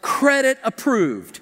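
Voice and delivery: slow, flat robotic machine read; toy checkout voice. Retold or imitated. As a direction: imitate the toy's card reader. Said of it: "Listen to this".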